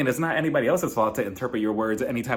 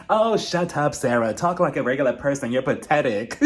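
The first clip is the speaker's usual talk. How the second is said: mock dismissive snap. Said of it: "Strawberry said it perfectly".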